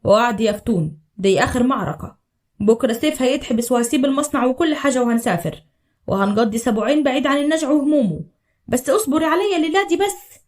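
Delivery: low, tender husband's voice; tender promise. Acted. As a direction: soothe her gently and low. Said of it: "وهمس في ودنها بصوت كله حنية". (همس حنين بصوت واطي)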